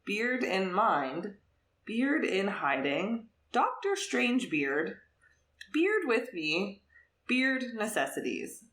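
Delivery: slow, savouring each title; a deliberate, amused title roll call; reading out titles. Real, not acted. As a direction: present each title like a list for listeners. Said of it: "I have to read these titles for our listeners".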